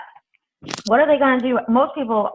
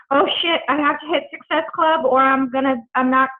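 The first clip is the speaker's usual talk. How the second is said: higher-pitched, fretful pretend inviter; mock panic; 4 semitones higher than usual. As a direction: act out someone stressed about a target. Acts out a pressured, desperate inviter.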